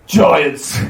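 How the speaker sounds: giant calling out, lightly voiced. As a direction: announce it like a giant to a hall. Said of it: "Thrym called out".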